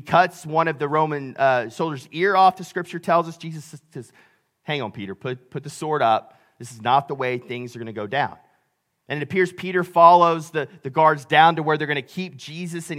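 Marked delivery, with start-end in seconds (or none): 4.6-8.4 lower-pitched, mildly calming retold rebuke; voicing a composed teacher halting a fight; calm restraint. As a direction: gently rein in a hot-headed friend. Jesus calming sword-wielding Peter.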